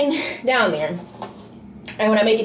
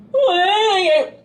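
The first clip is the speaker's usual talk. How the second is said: shocked what; 8 semitones higher, 3 dB louder than usual. Retold or imitated. Learns wrong flight.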